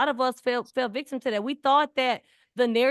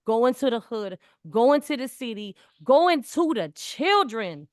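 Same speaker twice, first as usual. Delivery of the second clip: each going to line louder, the last one slow and drawn out; rally the room, one line louder than the last; building emphasis; 4 dB louder, slower than usual. Real, not acted. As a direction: build the list from strong to stretched and loud. Rising emphatic list of places.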